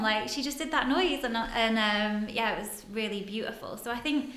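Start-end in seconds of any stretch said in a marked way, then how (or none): none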